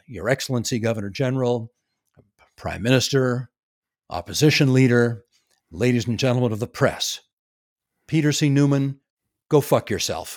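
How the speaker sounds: very deep, bottom-of-range statesman voice. Retelling a man's whole speech to the camera, imitating his very deep voice. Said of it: "he says in his very deep voice".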